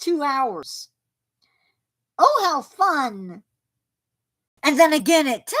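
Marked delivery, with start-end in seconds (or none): 2.2-3.4 sarcastic. Real, not acted. Sarcastic about more storms.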